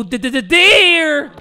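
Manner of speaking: slow, loud stammer on d-d-d-deer; stuttered pun. Pretend. Spotting a deer, he stammers a lame pun. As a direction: stammer it out as a corny joke. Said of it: "it was a bad joke".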